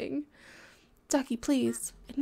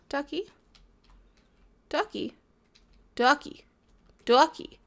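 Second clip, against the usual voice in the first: calling a lost pet duck; calling out, building. Real, not acted. Calling duck louder each time.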